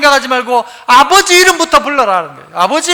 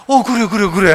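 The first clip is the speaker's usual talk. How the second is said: gentle fatherly reassurance; 4 semitones lower than usual. Retold or imitated. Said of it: "하는 것 같아요".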